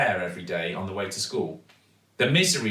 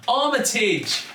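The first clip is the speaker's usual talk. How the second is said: high, louder excited cry; shouting out; 13 semitones higher, 5 dB louder, slower than usual. A narrator's reading. Zoe guessing the van's name, shouting it out. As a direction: blurt the name out in delight. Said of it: "couldn't resist shouting out".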